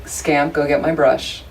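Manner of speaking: lightly flat, even tone with no rise, a bit slow; no intonation. Retold or imitated. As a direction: say it to a dog in one level tone. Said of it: "no intonation".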